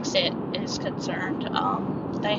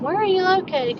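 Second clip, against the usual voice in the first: caller's question; 10 semitones higher, 4 dB louder than usual. Retold or imitated. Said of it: "I would always get the question".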